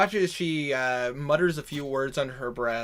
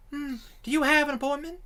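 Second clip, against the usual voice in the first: receptionist; 12 semitones higher, faster than usual. Acted. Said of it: "And you go".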